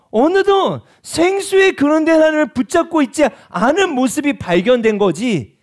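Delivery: high, loud, impassioned preaching; fervent preaching. Acted. Preacher confessing to congregation, impassioned and loud. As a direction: pour it out like a revival sermon.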